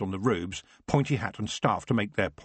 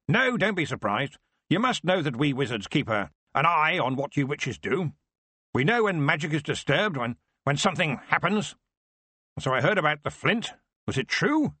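brusque; 6 semitones higher than usual. Acted. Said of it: "His voice was brusque now".

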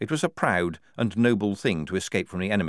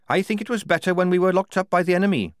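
higher-pitched character voice, grumbling; disgruntled prisoner's complaint; Tonka, disgruntled captive; 10 semitones higher, 4 dB louder, faster than usual. A narrator's reading. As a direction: grumble it high, well above the narration.

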